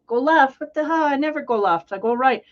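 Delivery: indignant retort. Retold or imitated. Driver snapping back at the guy in the window, loud. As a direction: fire it back, offended.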